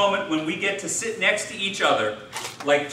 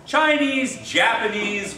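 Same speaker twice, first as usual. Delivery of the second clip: high-pitched names, stepping down; dismissive listing; 5 semitones higher, slower than usual. Acted. Jewish guy answering the Chinese guy in a joke, dismissive. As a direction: toss both names off as interchangeable. Joke figure brushes off the distinction.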